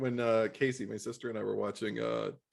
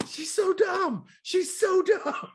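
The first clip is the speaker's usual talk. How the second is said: whispered mock; 5 dB louder, much slower than usual. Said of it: "I'm like".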